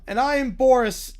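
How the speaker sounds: proud shout of the name; shouted insistence. Acted. Boris insisting to his son, shouted. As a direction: bellow who you are.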